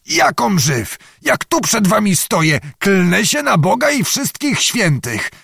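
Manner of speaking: high, agitated swearing of an oath; terrified astonishment. A narrator's reading. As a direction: insist urgently to friends who doubt you. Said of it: "malował się przestrach w połączeniu z największym zdumieniem".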